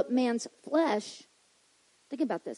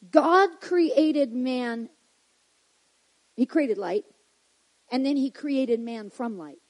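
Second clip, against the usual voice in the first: very slow, deliberate reading; very slowly; slower than usual. Shown as a demonstration. Preacher tying it up for the congregation, very slow. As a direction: drag out every word. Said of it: "So I'm gonna read this very slowly".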